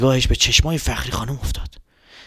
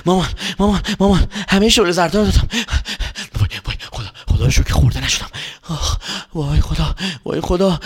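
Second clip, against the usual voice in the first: out of breath; 3 semitones higher than usual. Acted.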